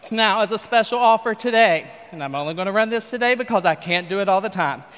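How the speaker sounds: folksy TV pitchman selling hard; infomercial pitch. Acted. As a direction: pitch it like a late-night infomercial host.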